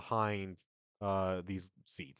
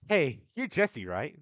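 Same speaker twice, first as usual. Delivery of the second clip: challenging call; 3 semitones higher, 6 dB louder than usual. Acted. NPC challenges Jesse.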